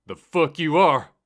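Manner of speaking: high, loud angry retort; fired back. Acted. Driver stopping the narrator from leaving, angry retort. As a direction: fire it right back at him. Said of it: "Tommy fired back".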